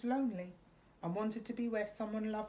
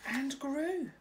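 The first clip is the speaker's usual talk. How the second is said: higher, louder, growing bigger; building wonder; 6 semitones higher, 4 dB louder than usual. A narrator's reading. Narrator building the forest's growth.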